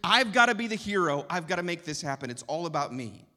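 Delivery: anxious self-reliance. Retold or imitated. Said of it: "I'm left with feeling".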